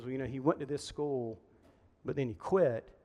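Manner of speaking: understated retelling of a wife's quiet confiding; tender sadness. Retold or imitated. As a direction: gently imitate a wife confiding with a touch of sadness. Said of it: "in this really tender moment".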